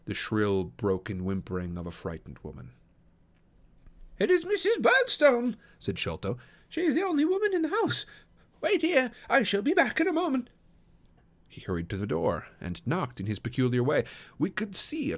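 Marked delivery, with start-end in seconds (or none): 4.2-5.6 high, loud, anxious little man; excitable character voice, pitched high; Thaddeus Sholto. A narrator's reading. Sholto tells his companions who the woman is, high anxious voice. 6.7-10.5 high, loud, anxious little man; excitable character voice, pitched high; Thaddeus Sholto. A narrator's reading. Sholto tells his companions to wait, high anxious voice.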